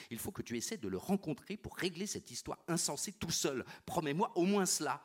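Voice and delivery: urgent loud plea for a promise; loud pleading. Acted. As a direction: press him hard, voice rising to a plea. Claire pleads with Philip.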